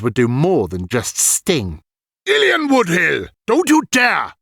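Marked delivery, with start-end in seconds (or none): 2.3-4.3 high, louder warning call; sharp cry. A narrator's reading. Old man stopping Ilian's spell, loud high warning. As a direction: stop him cold from behind. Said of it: "a voice cried behind him".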